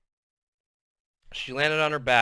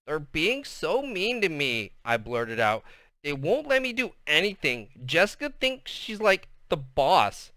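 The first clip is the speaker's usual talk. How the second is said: put-on whiny girl voice; 3 semitones higher than usual. Girl blurting complaint to teacher.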